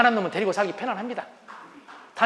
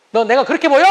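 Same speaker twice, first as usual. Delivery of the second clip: louder retort, offended; irritated husband; 3 semitones higher, 8 dB louder than usual. Retold or imitated. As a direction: bite back at the accusation. Husband snaps back at wife. (아내에게 발끈하는 남편)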